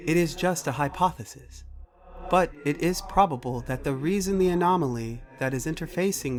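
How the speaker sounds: measured, precise machine voice; computer character, matter-of-fact. Acted. Computer tells Macy what it cannot access, formal machine voice. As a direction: state it formally, like an AI reporting limits.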